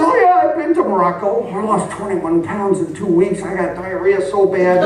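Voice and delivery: high, laughing mock sophistication; high laughing mock boast; hammed-up world traveler. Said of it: "I said".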